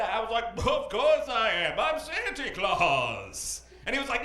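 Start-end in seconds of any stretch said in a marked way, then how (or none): 0.7-3.6 put-on Santa Claus. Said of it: "you're gonna be Santa Claus".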